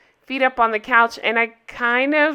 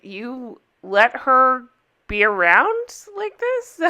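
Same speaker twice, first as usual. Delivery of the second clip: incredulous scold; slower than usual. Retold or imitated. Girls scold Charlotte about nanny.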